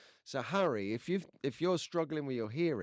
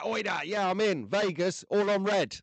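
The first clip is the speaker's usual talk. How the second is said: higher, louder keen imitation; eager mock quote; 5 semitones higher, 4 dB louder than usual. Host imitating keen friend on Vegas, eager and raised. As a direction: jump at the chance, imitating a mate.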